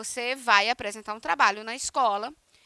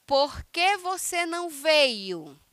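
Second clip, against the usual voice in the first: slow example question; 3 semitones higher, much slower than usual. Shown as a demonstration. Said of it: "e não colocar a interrogação".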